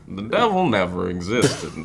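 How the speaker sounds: low, deep narrator voice, lightly done; a hint of deep gruff movie narrator; Morgan Freeman voice. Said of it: "That's my best Morgan Freeman".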